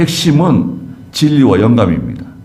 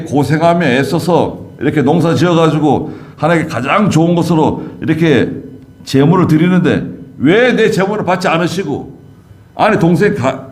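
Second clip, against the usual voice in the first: higher-pitched, mildly indignant complaint; aggrieved Cain; 4 semitones higher than usual. Acted. Cain protests to God about the rejected offering, aggrieved. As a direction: plead your case, lightly aggrieved. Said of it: "육신적으로 생각하는 거예요".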